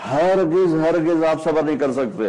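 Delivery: high, forceful acted refusal; emphatic refusal. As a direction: lean hard on a repeated, vehement denial. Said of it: "شدت ہے، شدت".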